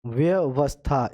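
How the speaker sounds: व्यवस्था slowly split into व्य and वस्था; slow spelling. Shown as a demonstration. Teacher slowly dividing व्यवस्था for students. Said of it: "इस type की व्य और वस्था".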